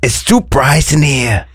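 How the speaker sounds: lightly put-on Swedish accent, slow; a hint of Swedish, playfully fussy. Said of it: "I work at ikea".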